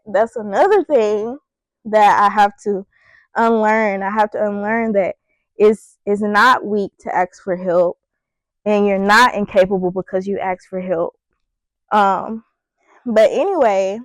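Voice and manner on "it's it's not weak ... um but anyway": a little winded while talking; out of breath. Real, not acted. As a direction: talk with short breaths. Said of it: "why am I so out of breath?".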